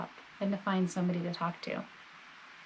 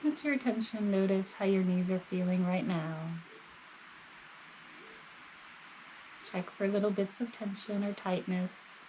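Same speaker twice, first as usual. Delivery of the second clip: calm, measured body-scan guidance with long pauses; guided meditation; 4 dB quieter than usual. Real, not acted. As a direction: gently guide the listener, leaving space between phrases.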